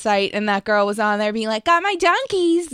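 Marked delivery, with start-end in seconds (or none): 1.7-2.7 a hint of a played-up Boston accent, slow; imitating a Boston fan's accent, drawn out; mock Boston accent. Retelling a girl at Fenway, light mock Boston accent. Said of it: "doing the whole accent".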